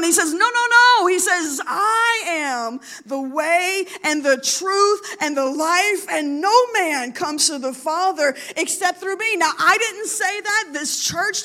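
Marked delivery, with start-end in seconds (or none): 0.3-1.1 loud, high, insistent refusal; emphatic no. Acted. Preacher voicing Jesus rejecting the other gods, loud and insistent. 1.7-9.4 slow, voice catching with emotion; tearful proclamation. Real, not acted. Preacher moved while quoting Jesus, slow and tearful.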